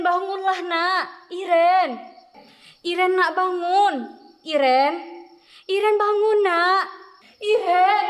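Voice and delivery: loud, frantic calls of her name; desperate calling. Acted. Mother trying to wake her unconscious daughter, frantic loud calling. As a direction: call her name over and over, begging her to wake.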